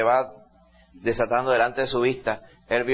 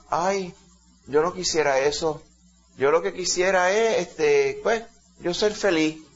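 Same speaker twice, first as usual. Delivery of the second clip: higher, hesitant, wistful little voice; mock meek wish; 4 semitones higher, slower than usual. Preacher imitates a believer who only wants happiness, mock meek. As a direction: lightly mimic someone sighing over a modest wish.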